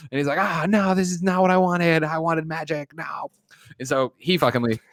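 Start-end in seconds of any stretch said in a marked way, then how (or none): 0.4-3.3 high-pitched mock protest, fading at the end; hammed-up upset whine, sinking away on the last word; retold anger. Retelling the magician's protest to co-hosts, mock upset. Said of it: "he's all, like, mad about it".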